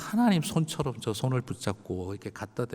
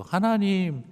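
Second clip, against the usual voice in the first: high, raised protest to God; complaining prayer; 9 semitones higher, much slower than usual. Retold or imitated. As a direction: cry out at God in frustration. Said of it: "목사같이 기도하고 싶지가 않더라고요".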